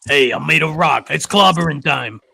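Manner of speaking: gruff Brooklyn tough-guy voice; hammed-up Brooklyn rock guy; Brooklyn accent. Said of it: "like, heavy Brooklyn accent".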